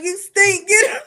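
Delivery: laughing mock scold. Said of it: "They're like".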